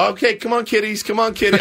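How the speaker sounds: high, coaxing pet-calling voice; singling out the kitties, high and eager; re-enacted cat call. Acting calling his cats to tuna.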